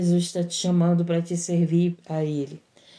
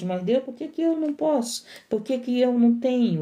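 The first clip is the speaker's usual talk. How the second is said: whining complaint; 4 semitones higher than usual. Retold or imitated. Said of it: "tá sempre murmurando com Deus".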